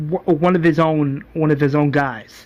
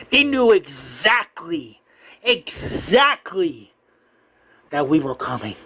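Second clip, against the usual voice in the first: heated, slowing down. Retold or imitated. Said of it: "gets out of the car heated".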